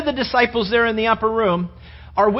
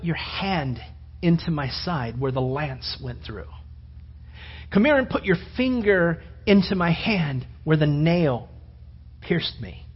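gentle invitation; 5 dB quieter than usual. Acted. Jesus speaks gently to Thomas.

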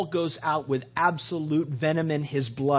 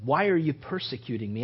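low, deep call from heaven; booming voice of heaven; 5 semitones lower than usual. Shown as a demonstration. Preacher voicing heaven booming to Saul. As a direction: boom it down from heaven. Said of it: "And I say booming".

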